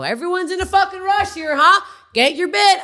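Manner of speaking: acted-out irate holler; retold yelling. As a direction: yell it at the whole line, pitched right up. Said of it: "I'm yelling".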